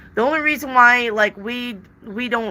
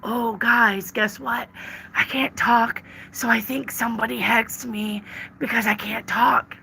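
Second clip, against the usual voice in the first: a touch of mock whining, softer; lightly mocked whiny streamer; mock whiny complaint; 2 semitones higher, 3 dB quieter than usual. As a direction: imitate a complaining reader, lightly. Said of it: "be like".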